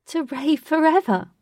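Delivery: high, loud words bursting with laughter; uncontrollable laughter. A narrator's reading. Katy laughing off the wizard's lecture. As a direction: laugh through it, can't hold it in. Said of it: "Katy said with uncontrollable laughter".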